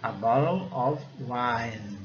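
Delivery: very slow "A bottle of wine", of said ov; pronunciation demo. Shown as a demonstration. Teacher sums up the phrase, slow careful English. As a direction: draw out "A bottle of wine", V sound in of. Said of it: "é o som de of".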